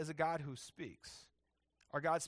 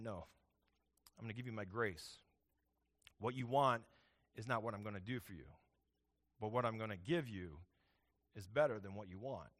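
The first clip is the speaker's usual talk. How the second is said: God's gentle answer; 6 semitones lower than usual. Retold or imitated. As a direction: answer like a patient father saying no kindly. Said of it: "And God says to him".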